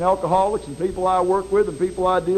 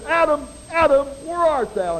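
booming voice of God; 7 semitones higher than usual. Acted. Preacher voices God calling Adam, booming. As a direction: call out like God from heaven. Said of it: "a voice came booming out of heaven".

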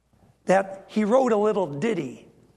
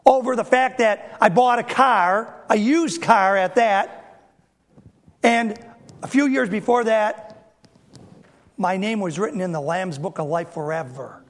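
excited. Shown as a demonstration. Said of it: "There should be some more excitement".

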